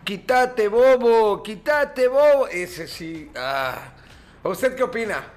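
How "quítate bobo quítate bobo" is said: mock Argentine, higher and louder; Argentine accent. Radio host imitates an Argentine telling someone off, mock Argentine accent. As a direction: tease in a mock porteño sing-song. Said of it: "El acento argentino, el que te dice".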